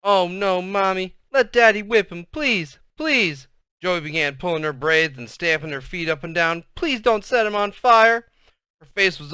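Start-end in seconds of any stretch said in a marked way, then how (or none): 0.0-3.5 put-on high, frantic little girl pleading; child going crazy with fear; hysterical begging. A narrator's reading. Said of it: "Joetta saw the Vaseline and went crazy". 6.8-8.3 high, loud, drawn-out wail; frantic little girl shrieking plea; hysterical begging. A narrator's reading. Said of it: "went crazy".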